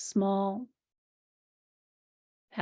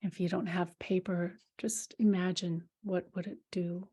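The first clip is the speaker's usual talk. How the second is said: whispering; 2 semitones lower, 5 dB quieter than usual. Real, not acted. Whispered aside in meditation.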